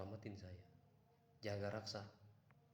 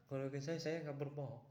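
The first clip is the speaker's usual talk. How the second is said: excited; 6 semitones higher, 6 dB louder than usual. Real, not acted. Insisting after laugh.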